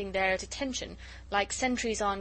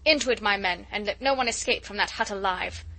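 mild command; 4 dB louder than usual. Acted. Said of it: "shouted the word of command".

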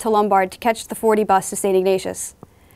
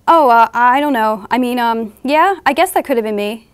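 hesitant, halting, then rising at the end; flustered reply. Acted. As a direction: stall and fumble through an awkward answer. Flustered narrator answering a guy.

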